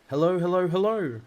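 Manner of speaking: high, loud parrot call. A narrator's reading. Parrot calls down the chimney to Matilda, loud squawky greeting. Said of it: "the bird called down to her".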